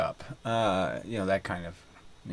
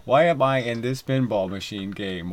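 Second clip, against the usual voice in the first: exasperated inner voice; 3 semitones higher, 6 dB louder than usual. Retold or imitated. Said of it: "a moment of just saying".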